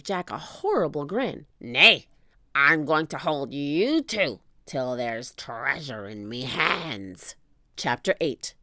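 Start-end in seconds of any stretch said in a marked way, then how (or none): 1.6-7.4 menacing pirate. Acted. Captain menacing.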